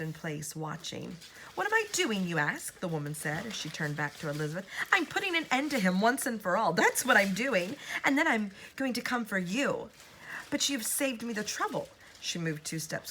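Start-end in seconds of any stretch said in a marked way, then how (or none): 1.5-2.8 high, loud booming witch; booming villain. A narrator's reading. Woman booms at Elizabeth, high and loud. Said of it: "Her voice began to boom". 4.9-11.9 higher, louder threatening witch; villainous yell. A narrator's reading. Woman yells threats at Elizabeth, high and loud. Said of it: "beginning to yell once more".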